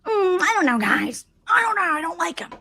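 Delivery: high, hedging, reluctant; hesitant mock voice. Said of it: "And she was like".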